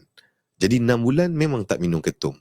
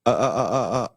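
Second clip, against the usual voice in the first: mock stutter; faster than usual. Shown as a demonstration. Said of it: "Contoh macam".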